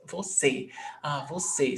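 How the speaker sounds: "você" softly, landing on final CÊ; stress on last syllable. Shown as a demonstration. Teacher works out the stressed syllable, soft "você" stressed on CÊ. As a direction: settle quietly on vo-CÊ for "você". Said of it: "So the last syllable is C".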